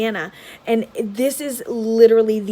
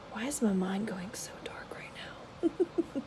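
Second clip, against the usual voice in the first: whisper; 12 dB quieter than usual. Real, not acted. Self-aware aside, then laugh.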